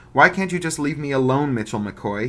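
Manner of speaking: high, loud pleading whine; whining. Acted. Bug whining to the bully, high loud whine. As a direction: whine it like a cornered kid. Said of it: "he whined".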